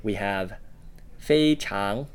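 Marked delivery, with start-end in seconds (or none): 1.2-2.1 非 held high and level in 非常; first tone on 非. Shown as a demonstration. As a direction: demonstrate 非常, first syllable high and even. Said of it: "with the first tone there".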